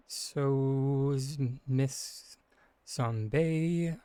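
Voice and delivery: slurred around a lozenge in mouth. Real, not acted. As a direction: talk past a lozenge, mouth full. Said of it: "I have a lozenge in my mouth".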